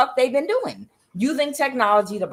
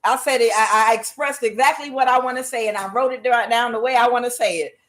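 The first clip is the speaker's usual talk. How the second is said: higher, insistent mock refusal; indignant boss; 3 semitones higher than usual. President rebuffing a staffer over wording, mock indignant. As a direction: brush off the aide stubbornly.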